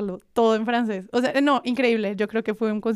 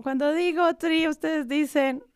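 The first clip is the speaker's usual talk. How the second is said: higher, slow hyped-up idol voice; quoting an idol; 6 semitones higher, slower than usual. Retold or imitated. Fan imitates idol hyping the crowd, higher and slow. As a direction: hype the crowd like an idol on stage. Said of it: "empieza Banchan como".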